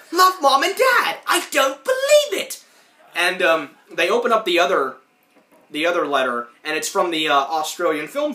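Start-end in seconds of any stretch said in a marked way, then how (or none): 0.1-2.6 much higher, slow, half laughing; disbelieving wail. Retold or imitated. Rocco mortified by his parents' letter, high slow wail. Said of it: "he's like".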